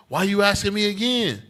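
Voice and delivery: put-on high, put-out kid voice; grieved child. Pastor imitating a child pestered by parents, high and annoyed. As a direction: complain like a child asked too many times. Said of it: "child would be grieved with you".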